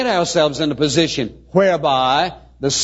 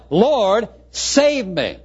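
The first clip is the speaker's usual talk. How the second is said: high-pitched mock plea for rescue; a staged cry for help; 5 semitones higher, much slower than usual. Shown as a demonstration. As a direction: call out urgently, acting a drowning man. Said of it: "he cried out".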